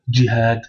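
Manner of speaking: jihad stopped on the d; blocked final letter. Shown as a demonstration. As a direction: end jihad on a stop. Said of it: "on bloque la dernière lettre".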